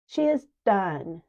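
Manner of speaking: put-on old woman announcing the job done, slow and loud; declaring. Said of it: "declared Orange Eyes".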